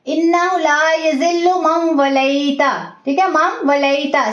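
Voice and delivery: वलैता with the या drawn out; stretched ya. Shown as a demonstration. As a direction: let the या in वलैता be clearly held. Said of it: "थोड़ा सा खींचना है". (या को खींच के)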